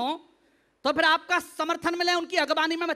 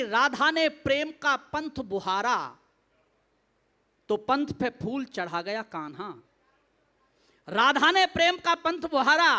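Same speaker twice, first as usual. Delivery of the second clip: measured, lilting verse; devotional poetry recitation; 3 semitones lower than usual. Acted. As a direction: recite line by line with pauses.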